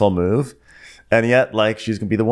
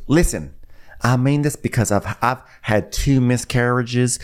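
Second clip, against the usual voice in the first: slow earnest imitation. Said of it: "Sonny goes".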